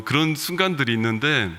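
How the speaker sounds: ordinary talk, nothing marked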